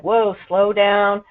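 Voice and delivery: a hint of a baby pleading for pacing; voicing the baby. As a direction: nurse voicing the baby to show feeding cues, mildly slowed. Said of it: "It's like".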